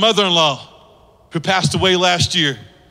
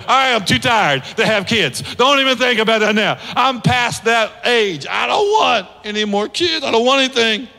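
fed-up Sarah. Acted. Sarah insists to the prophet she is past having kids, exasperated. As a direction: play Sarah refusing more kids. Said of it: "Any moms ever feel that way".

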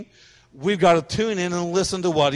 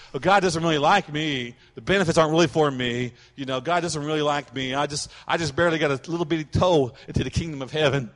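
mild mock pity-party whine; put-on woe-is-me complaint; self-pitying; 2 semitones lower than usual. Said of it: "like to have those pity parties".

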